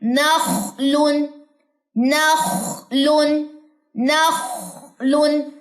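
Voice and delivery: नखलुन very slow, with the ख from the top of the throat; नखलुन recited slowly to show the throat sound; slow recitation demo. Shown as a demonstration. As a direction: stretch नखलुन and let the ख breathe. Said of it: "गले के बिल्कुल start से अदा होता है".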